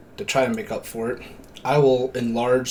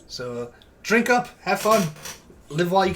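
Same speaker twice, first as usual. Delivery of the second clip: NPC voice; 3 semitones higher than usual. Acted.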